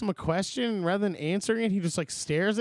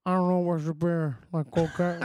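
hammed-up Scarface accent, lightly done; Al Pacino. Friend quoting the teen in the movie, Scarface impression. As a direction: mimic a bad Cuban gangster. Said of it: "your, uh, Pacino impression".

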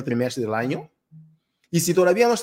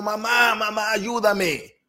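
put-on children crying for help; 5 semitones higher, slower than usual.

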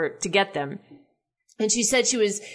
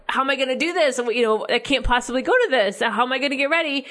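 anxious freaking out; 2 semitones higher than usual. Retold or imitated. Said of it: "where I'm freaking out".

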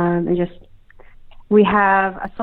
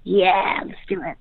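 breaking up on a bad call line; words dropping out like a glitchy connection; choppy cut off endings. Real, not acted. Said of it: "Dude, you keep cutting in and out".

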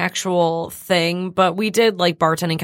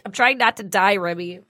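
breathless and wheezing; wheezy voice. Real, not acted. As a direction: talk through a tight chest. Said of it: "I'm wheezy".

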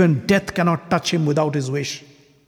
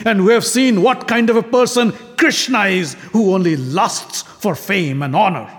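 raised, heated call to walk out; rousing angry appeal; 2 semitones higher, 3 dB louder than usual. Acted. Shishupala rallies the guests to walk out, rising anger. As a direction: stir the guests to leave with you. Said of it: "looked back at the assembled guests and said".

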